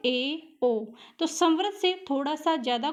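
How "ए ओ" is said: ए and ओ with the mouth a little more open; teacher showing the half-closed vowels ए and ओ; vowel demo. Shown as a demonstration. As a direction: say ए, ओ as clear isolated vowels. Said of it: "अधिक मात्रा में खुले, तो जैसे".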